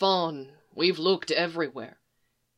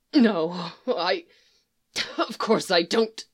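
choked out; slower than usual. Acted. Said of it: "he choked out".

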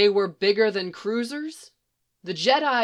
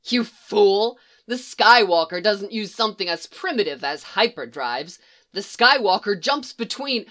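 loud, contemptuous rant; scornful outburst; 2 semitones higher, 5 dB louder than usual. Acted. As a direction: sneer at his ignorance. Scientist scorns the trooper.

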